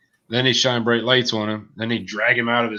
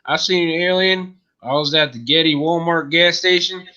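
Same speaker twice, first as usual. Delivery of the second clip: put-on higher country-yokel accent; put-on hick accent; 4 semitones higher than usual. Guest telling an alien tale, hick accent. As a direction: testify in a hammed-up hick accent. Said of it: "that's not my actual accent".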